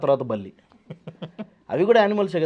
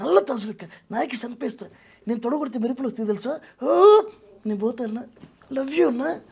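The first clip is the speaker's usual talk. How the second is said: much higher squeaky comic voice with shrieked ఆ?; Venu Madhav impression; 10 semitones higher than usual. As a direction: chirp it up high like a cheeky comedian. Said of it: "ఆయన్ని".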